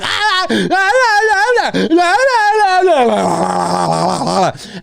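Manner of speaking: high mock toddler wail, ah ah ah; bratty kid wailing. Mimicking a spoiled kid wailing during a movie.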